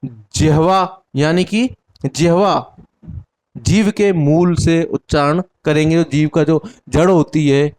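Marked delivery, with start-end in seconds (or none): 0.0-2.8 slow, clear. Shown as a demonstration. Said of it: "उसको जिह्वा".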